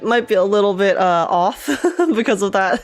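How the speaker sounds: groggy just-woke-up voice; morning voice. Real, not acted. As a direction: talk with a fresh morning voice. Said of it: "This is my morning voice".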